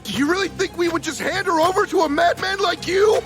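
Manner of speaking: high, fast, loud retort; defiant shout. Acted. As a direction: fling it back at him. Defiant reply to attacker.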